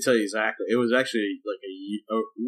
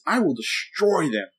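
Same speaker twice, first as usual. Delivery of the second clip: slow, deliberate, a bit higher threat; menacing threat; 4 semitones higher than usual. Retold or imitated. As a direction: draw each word out like a vow. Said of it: "and I go this".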